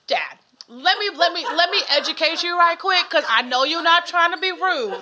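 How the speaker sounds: playful lecture to dad, laughing through it; laughing mock lecture. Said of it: "I like that you're like".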